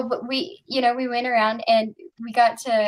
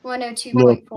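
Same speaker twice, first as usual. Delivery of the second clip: "One oh two point four" repeated louder and firmer so the listener catches it; louder repeat for clarity; 5 dB louder than usual. Real, not acted. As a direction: repeat it louder and more clearly. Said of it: "Wait, what?".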